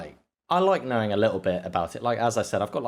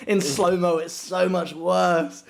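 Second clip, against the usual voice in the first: retold warning; 8 semitones higher, 4 dB louder than usual. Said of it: "And I was like".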